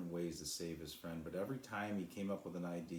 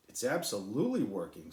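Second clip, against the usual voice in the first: louder cheerful shout; cheering; 3 semitones higher, 8 dB louder than usual. A narrator's reading. Sly cheering to the cloud, loud and triumphant. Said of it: "Sly cheered".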